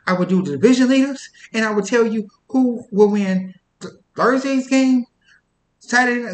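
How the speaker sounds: a hint of a grand fortune teller announcing; swami fortune teller. Swami character predicting the NFL season, lightly voiced. Plays Distant Cousin of Swami.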